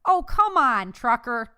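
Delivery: high, loud exasperated reproach; scolding. A narrator's reading. Boy scolding his dog for licking faces, exasperated. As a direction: scold it with a big lift on the opening. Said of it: "Dexter scolded him".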